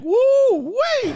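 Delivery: a very high, loud, thrilled woo wee; a man recalls meeting his sitter and whoops with glee; excited whoop. Retold or imitated. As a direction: whoop it out like you can't contain the thrill. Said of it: "I was excited".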